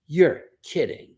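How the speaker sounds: drawn-out, slow disbelief; stunned disbelief. Retold or imitated. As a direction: stretch it out, astonished. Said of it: "She was blown away".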